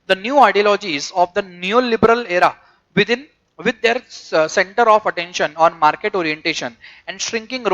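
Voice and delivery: slow, measured textbook reading; deliberate phrase-by-phrase reading; reading aloud. Real, not acted. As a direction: read it out slowly to a class.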